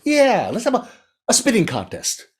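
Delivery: high frog voice pitching an idea; squeaky, excited little frog; eager frog. A narrator's reading. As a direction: sell the tiger a new challenge. Frog proposes spitting contest.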